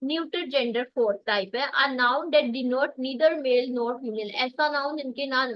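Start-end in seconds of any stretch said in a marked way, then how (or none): 1.7-4.3 slow dictation. Shown as a demonstration. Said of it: "teacher dictates the English definition".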